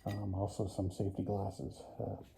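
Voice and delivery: talking through a dust mask; muffled voice behind a mask. Real, not acted. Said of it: "sorry if I sound muffled".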